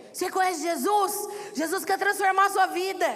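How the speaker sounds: retold fervent witnessing; street preaching. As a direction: preach at him eagerly on the roadside. Husband preaches to the drunk man.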